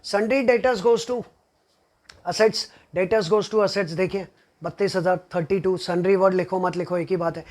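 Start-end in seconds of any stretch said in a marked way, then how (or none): 0.1-3.9 slow dictation. Shown as a demonstration. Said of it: "teacher dictating rule slowly".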